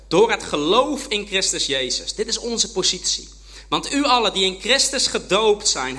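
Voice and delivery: solemn scripture reading. Acted. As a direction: read the verses to the congregation. Reads Scripture aloud to congregation. (plechtig voorlezen uit de Bijbel)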